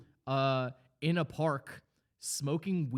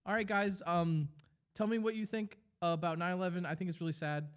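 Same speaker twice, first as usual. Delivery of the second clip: put-on kid YouTuber voice; 5 semitones higher than usual. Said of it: "He's like".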